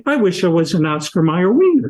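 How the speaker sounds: laughing at the absurd line. Retold or imitated.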